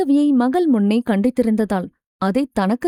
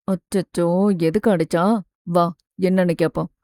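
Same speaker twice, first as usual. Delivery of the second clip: soothing father; 5 semitones lower than usual. Acted. Father comforts his daughter after she was hit, low soothing voice. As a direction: coo over her like a worried dad.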